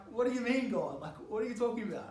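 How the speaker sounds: high, loud incredulous protest; indignant disbelief. Retold or imitated. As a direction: call out to God in loud disbelief. Arguing with God, indignant.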